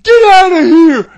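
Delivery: slow, loud shouted order; referee yelling. Retold or imitated. Referee ordering him out again, slow shout. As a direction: drag out a loud referee command. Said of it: "the referee's like".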